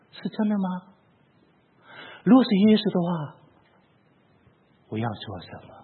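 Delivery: a quiet retold plea to God; hushed prayer. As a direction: pray it alone in an empty church. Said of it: "我说".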